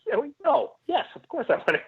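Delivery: hammed-up eager acceptance; mock over-eager yes. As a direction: blurt it out like a starstruck fan. Eager reply to set invite.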